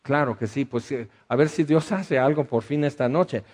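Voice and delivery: sarcastic. Retold or imitated. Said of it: "Y yo así sarcásticamente".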